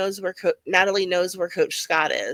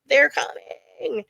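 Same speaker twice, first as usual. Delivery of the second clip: drawn-out, raised mock cry of panic; mock panicked scream; 5 semitones higher, much slower than usual. Recapper quoting Travis in his terrible trip, mock panicked cry. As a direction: stretch it out like a half-hearted scream. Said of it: "He is panicking and screaming".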